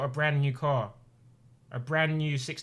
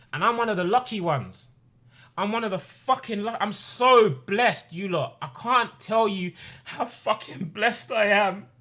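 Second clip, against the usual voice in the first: voice breaking with emotion; 6 semitones higher than usual. Real, not acted. Overwhelmed telling of his blessings.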